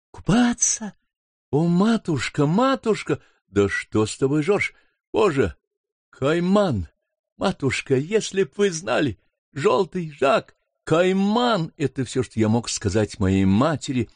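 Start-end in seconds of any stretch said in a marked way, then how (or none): 0.1-11.7 higher, urgent alarm; alarmed son. Acted. Son warns mother of the caiman, alarmed and higher. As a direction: panic rising as he warns his mother. Son realises sister's danger.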